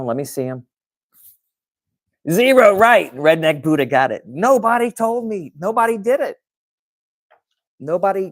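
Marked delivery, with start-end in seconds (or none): 2.3-8.3 much higher and louder, half-laughing disbelief; a big high exclamation at zero replies; exasperated outburst. Real, not acted. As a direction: throw it out in amazed frustration. No listener sent in stories.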